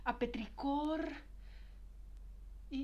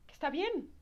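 a hint of proud father; imitating her father; 5 semitones higher than usual. Bride voicing her father's approval, mildly higher. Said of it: "si mi papá me viera".

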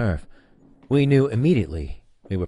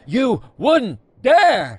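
much higher, louder, very slow; overacted climax, pushed to the top; hammed-up shrill peak; 13 semitones higher, 7 dB louder, much slower than usual. Captain daring Worf, overacted to a peak. Rising repeated line.

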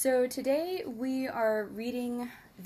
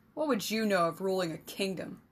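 demanded through gritted teeth; faster than usual. Acted. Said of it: "the king demanded through gritted teeth".

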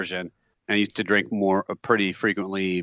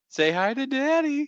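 laughing; 14 semitones higher than usual. Real, not acted. Teasing through laughter.

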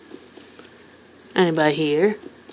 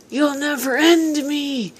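defiant taunt; 7 semitones higher than usual. Acted. Taunting the game villain.

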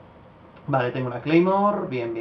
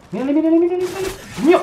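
much higher, urgent excited call; excited spotting; 13 semitones higher, 6 dB louder, faster than usual. Real, not acted. Gamer spotting an enemy mid-match, excited. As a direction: point him out in a rush.

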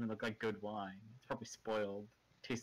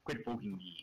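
exasperated poked game character; 4 semitones lower than usual. Retold or imitated. Game unit quote when clicked.

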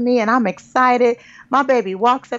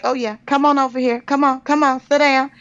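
higher, fast mock-sweet summoning; mock summons; 6 semitones higher than usual. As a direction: ego luring the daughter over, lightly hammed. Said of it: "my ego's like".

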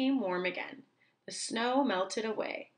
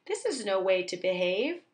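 scolding; 3 semitones higher than usual. Acted. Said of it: "cried Owl".

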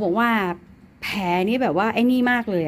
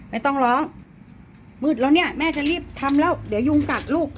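loud coaxing; 7 semitones higher, 6 dB louder than usual. Real, not acted. Owner hurries and soothes crying cat.

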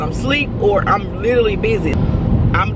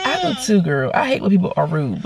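mildly fed-up, dropping low by the end; annoyed agreement; 4 semitones lower than usual. Retold or imitated. Annoyed customer agreeing with young receptionist, low and weary. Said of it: "I'm just annoyed right now".

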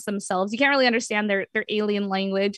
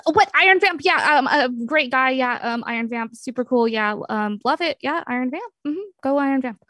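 awkwardly playing it cool; flustered cover-up; 3 semitones higher, 3 dB louder than usual. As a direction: cover up with hasty, halting enthusiasm. Caught out, covering with fake enthusiasm.

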